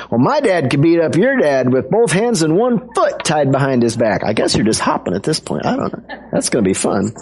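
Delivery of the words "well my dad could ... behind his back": higher-pitched mock kid boast; bragging one-upmanship. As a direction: lightly play a boy topping his rival. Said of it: "that one-upmanship thing going on".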